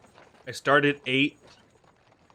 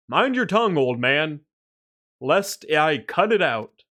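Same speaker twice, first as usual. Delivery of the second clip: stern guard voice; 2 semitones higher than usual. Acted. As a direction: threaten him like a captain. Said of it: "retake of the same line".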